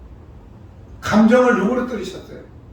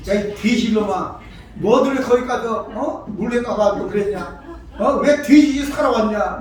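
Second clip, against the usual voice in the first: scolding Korean parent; 3 dB louder than usual. Retold or imitated. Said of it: "우리나라 부모들 어때요".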